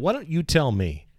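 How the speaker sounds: high-pitched, pointed question; challenging boss. Retold or imitated. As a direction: imitate the boss putting you on the spot. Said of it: "he just said it just like that".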